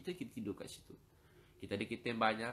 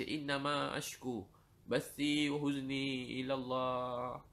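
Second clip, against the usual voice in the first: weeping recitation; 3 semitones higher, much slower than usual. Retold or imitated. Preacher imitates Umar weeping over the verse, mild tearful chant. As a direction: recite it as if weeping at dawn prayer. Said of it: "Menangis sampai saf paling belakang dengar".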